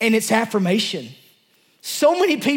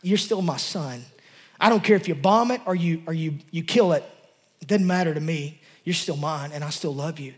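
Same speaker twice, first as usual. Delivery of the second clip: tender voice of God; 5 semitones lower, 4 dB quieter than usual. Retold or imitated. God's tender words to the preacher.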